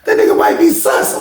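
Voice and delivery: hammed-up yell; mock shout. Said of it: "He said".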